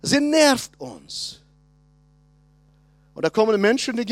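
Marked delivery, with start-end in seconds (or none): 0.0-1.4 annoyed disciples. Retold or imitated. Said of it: "Die Jünger sagen".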